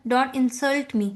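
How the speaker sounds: slow, leaning on SULT; stress on SULT. Shown as a demonstration. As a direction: insult stressed on SULT, said slowly. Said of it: "एक example".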